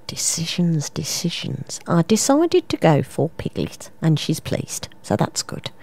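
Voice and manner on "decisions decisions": soft, near-whispered musing; hushed pondering. Acted. Mum umming and ahhing between two charms, hushed pondering. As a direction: mull it over under your breath. Weighing up which charm to buy.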